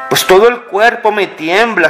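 usual speaking voice

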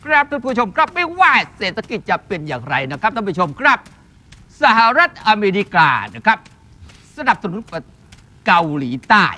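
lightly imitated political news reporter; Suthichai Yoon. Shown as a demonstration. Hat seller performing a requested voice for the hosts to guess, light reporter impression. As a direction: put on a hint of a veteran news commentator. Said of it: "เป็นผู้ที่รายงานข่าวเกี่ยวกับการเมืองคุณสุ".

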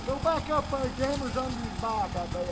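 retold call. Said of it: "I said".

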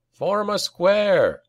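slow, high-pitched rallying call; called-out order. A narrator's reading. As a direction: call the order out slowly across the ranks. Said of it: "called Oric".

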